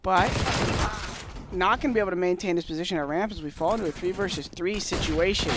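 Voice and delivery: mock play-by-play caster. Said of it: "our best play-by-play impression".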